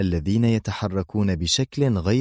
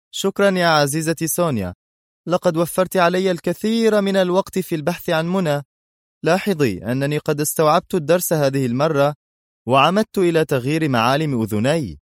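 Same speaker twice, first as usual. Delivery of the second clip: higher, louder mocking sternness; sarcastic and stern; 8 semitones higher, 3 dB louder than usual. A narrator's reading. Adham unmasked, taunting Sonia, sarcastic stern voice. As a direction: thank her with stern sarcasm. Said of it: "بصوت ساخر مألوف لا يخلو من الصرامة".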